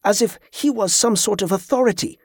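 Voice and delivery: bemused disbelief; amused disbelief. A narrator's reading. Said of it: "more amused than offended".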